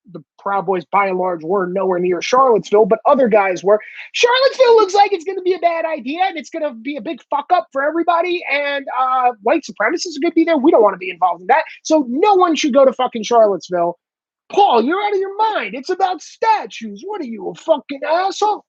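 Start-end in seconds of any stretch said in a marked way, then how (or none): 4.1-14.0 fast, higher, insistent retold warning; urgent warning. Retells his own urgent warning. 14.5-18.6 higher, sneering mock of the critics; mocking dismissive critic. Mocking critics who dismiss him.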